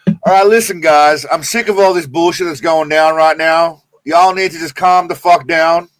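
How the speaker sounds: loud, mock tough-guy American accent; hammed-up American accent, laying down the law. Streamer putting on an American accent for chat, loud mock American. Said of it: "American accent".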